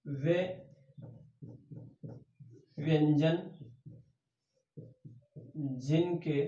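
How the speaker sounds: quiet, measured note-taking pace; slow dictation. Shown as a demonstration. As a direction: dictate word by word, leaving time to write. Dictating a definition for writing.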